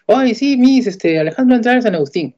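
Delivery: contando la noticia emocionado y agudo; ilusionado, voz alta y aguda; emoción retomada. Retold or imitated. Emocionado ante la psicóloga. (padre emocionado ante la psicóloga)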